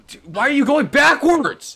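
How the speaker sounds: high, loud and slow; drawn-out angry cry; exasperated yell. Real, not acted. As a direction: yell it in disbelief at the screen. Raging at game character.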